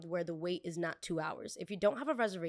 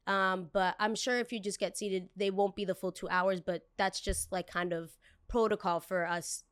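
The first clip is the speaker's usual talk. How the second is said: polite server voice. Pretend. Server explaining to guest.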